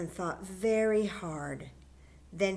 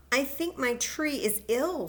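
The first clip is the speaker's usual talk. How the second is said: worried little bear; 6 semitones higher, 5 dB louder than usual. Acted. Fletcher worried about his tree.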